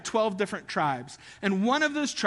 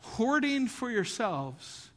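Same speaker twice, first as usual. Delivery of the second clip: 1 stern accusation; 5 dB quieter, slower than usual. Acted. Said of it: "He is saying".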